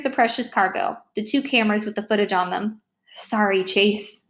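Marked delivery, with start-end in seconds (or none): 3.2-4.2 slow, sheepish apology; mumbled, contrite. Acted. Boy apologizes to his friend, slow and contrite. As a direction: say sorry slowly, a touch ashamed. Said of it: "I mumble, contrite".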